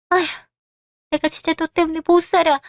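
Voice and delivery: a mother at her wits' end, scolding; exasperated scolding. Acted. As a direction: throw up your hands at the boy.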